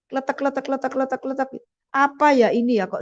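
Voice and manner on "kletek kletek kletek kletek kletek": tiruan bunyi batu berkeletek, agak pelan. Retold or imitated. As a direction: tirukan batu beradu pelan. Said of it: "saya dengar suara batu". (suara kletek batu, lirih)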